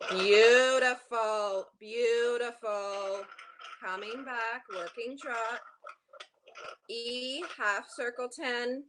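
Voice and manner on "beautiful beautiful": slow, stretched-out praise; drawn-out praise. Real, not acted. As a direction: savour each word slowly. Coach praising long trot.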